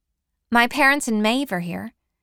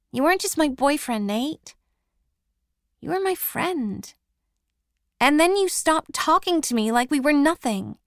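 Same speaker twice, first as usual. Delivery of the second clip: higher, hurt reproach to an ex; hurt and pleading; 7 semitones higher than usual. A narrator's reading. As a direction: voice rising with old pain. Bronwyn confronts Nate, hurt.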